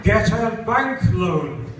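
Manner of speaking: put-on African accent, drawn out. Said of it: "I heard this, uh, black African voice say".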